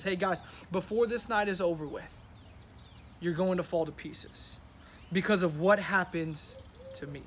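"Hey, guys" and "fall to pieces" said like a casual chat; casual paraphrase. Shown as a demonstration. Pastor recasting Jesus's words for the church, casual. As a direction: retell it like an easy talk among friends. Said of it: "Listen to what Jesus is telling the disciples".

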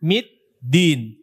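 "middin" said as "mit-din"; ta-dal, wrong. Shown as a demonstration. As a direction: let the first d of "middin" weaken into t. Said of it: "ta, dal".

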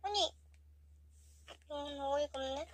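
quiet stunned indignation; acted flat disbelief. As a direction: let the disbelief sink in. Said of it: "정색을 빨면서". (어이없어하는 정색한 말투)

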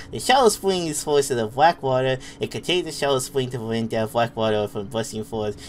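lightly put-on cutesy baby talk, breaking into giggles; uwu voice. Streamer reading a game note for laughs, uwu voice. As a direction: read it in a mock uwu voice. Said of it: "I'll do the Uwu voice".

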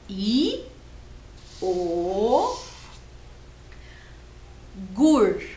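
I, o, gur each said slowly as a separate beat; syllable by syllable. Shown as a demonstration. Teacher sounds out syllables of iogurte for children. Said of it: "é a terceira sílaba".

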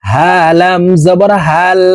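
"হা" and "হাল" from the start of the throat; Arabic h in "হাল" from deepest throat; small ha. Shown as a demonstration. Teacher showing the small ha, throat-start h. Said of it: "হলকের শুরু থেকে উচ্চারণ করব".

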